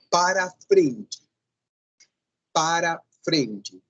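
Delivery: para frente said slowly and carefully; slow model phrase. Shown as a demonstration. Teacher modelling the correct phrase slowly for students. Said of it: "Não é".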